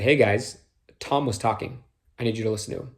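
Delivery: firm yet kind correction; firm but kind. Shown as a demonstration. Leader stopping side talk, firm but kind. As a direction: set the limit, gently but firmly. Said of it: "in a way that's firm, but very kind".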